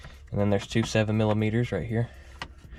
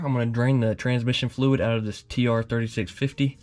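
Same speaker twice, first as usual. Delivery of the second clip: talking while lying under a car; strained, on your back under a car. Real, not acted. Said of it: "I'm under the car".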